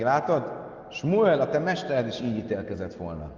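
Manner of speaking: lightly mocking retelling; a touch of scorn aimed at Shmuel; mild sneer, understated; mockingly. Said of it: "Mondta gúnyosan".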